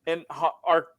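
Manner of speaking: lightly voiced TV lawyer ad; injury lawyer ad. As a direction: read it like a late-night ad. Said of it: "He says".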